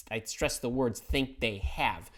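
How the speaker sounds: slow, leaning on "think they have"; stress on think. Shown as a demonstration. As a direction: weigh each word of "think they have". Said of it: "And I stress the word think".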